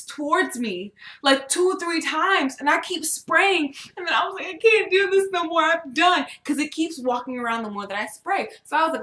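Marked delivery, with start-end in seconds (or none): 4.5-6.3 high, loud comic despair; retold panicked surrender. Spraying a leaping bug, exasperated panic. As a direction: give up in mock panic.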